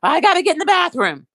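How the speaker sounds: high pleading whine; sedated whine. Retold or imitated. Brother from sedation to sister, high begging whine. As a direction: keep begging like a drugged patient.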